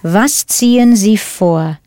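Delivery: slow, careful "Was ziehen Sie vor?" with each word set apart; slow clear model. Shown as a demonstration. Teacher repeating the question slowly for learners. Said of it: "teacher repeats the model question".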